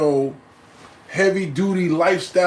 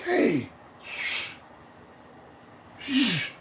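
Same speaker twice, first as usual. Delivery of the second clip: hushing; 6 semitones higher, 7 dB quieter, much slower than usual. Retold or imitated. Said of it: "I'm like".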